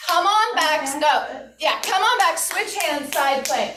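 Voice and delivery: rapid-fire cue sequence; all at once. Shown as a demonstration. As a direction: run the cues together quickly. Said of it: "I'm gonna say it all at once".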